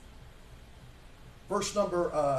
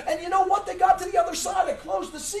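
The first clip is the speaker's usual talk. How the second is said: raised, high indignant shout; God shouting; 7 semitones higher, 4 dB louder than usual. Acted. Preacher voicing God, shouting at ungrateful Israel. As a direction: thunder it out as an angry God.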